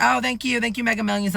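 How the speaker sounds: high-pitched, polite thank-you. Retold or imitated. Polite thanks to gushing viewer.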